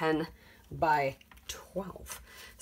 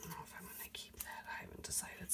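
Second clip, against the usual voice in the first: whispering; 18 dB quieter, faster than usual. Real, not acted. Musing aloud while crafting.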